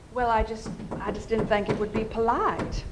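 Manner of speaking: a light imitated Southern accent, gentle and unhurried. Stephen excusing his letter to the advisor, mild Southern accent. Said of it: "in his very nice Southern accent".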